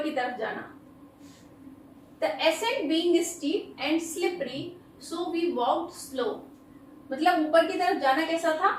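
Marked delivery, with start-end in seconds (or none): 2.2-6.3 very slow, every word spaced out; slow dictation. Shown as a demonstration. Teacher reading an example sentence very slowly to students. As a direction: read it out slowly so students can write it down.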